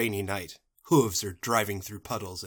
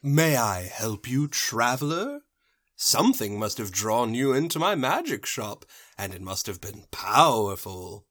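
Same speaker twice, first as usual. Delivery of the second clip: mysterious shopkeeper. Acted. Shopkeeper greeting a cloaked traveler, lightly acted mystique. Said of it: "in walks a shopkeeper".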